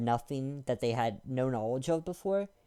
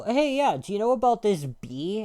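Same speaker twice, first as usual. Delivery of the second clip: high, louder mock of a know-nothing; mocking dumb voice; 6 semitones higher, 4 dB louder than usual. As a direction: play a clueless person who is sure of himself. Mocking clueless people about animals.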